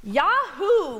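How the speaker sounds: high, loud storybook cheer; gleeful whoop in a read-aloud; excited cry. A narrator's reading. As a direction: cheer like a delighted little cub. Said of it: "cried little cub".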